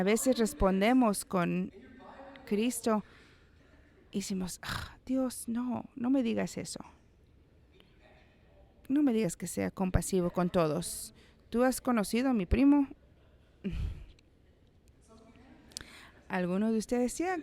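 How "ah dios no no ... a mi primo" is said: higher, playful whining protest; mock complaining to God. A believer jokingly protesting God's command to be compassionate, whiny. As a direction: protest to God like a kid dodging a chore.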